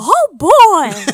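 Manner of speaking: loud, squeaky high voice. Asked by another speaker to do Mickey Mouse: Mickey Mouse voice. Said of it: "Do Mickey Mouse".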